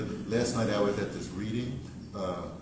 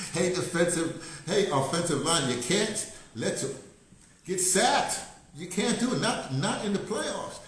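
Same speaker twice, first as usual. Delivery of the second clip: higher and louder, slow indignant shouting; yelling at the team; 8 semitones higher, 7 dB louder, slower than usual. Acted. Fan shouting at the Ravens offensive line, high and loud. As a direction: call out to the offensive line as if from the stands.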